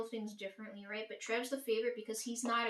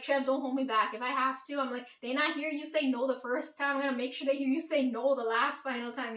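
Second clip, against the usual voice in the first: heated retold threat; 2 semitones higher, 5 dB louder than usual. Retold vow to Trev, heated.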